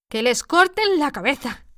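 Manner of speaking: furious order. A narrator's reading. Queen ordering the execution.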